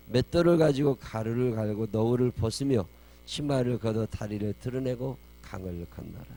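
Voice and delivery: loud, declaimed scripture; scripture reading. A narrator's reading. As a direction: proclaim the verse with force. (힘주어 큰 소리로 성경 봉독)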